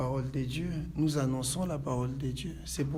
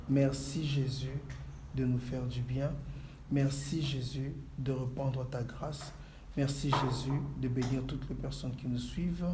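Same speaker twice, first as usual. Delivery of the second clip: prayer. Acted. Pastor leads a prayer.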